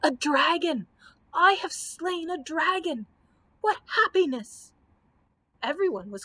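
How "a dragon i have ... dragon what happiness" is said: high, gleeful shouting; exuberant shout. Acted. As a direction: crow with delight over the kill. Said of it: "shouting exuberantly".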